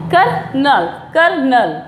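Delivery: कर्नल said as "kur-nul", syllables set apart; teacher models कर्नल twice as "kur, nul"; word demo. Shown as a demonstration. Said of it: "क्या बोला जाता है इसको".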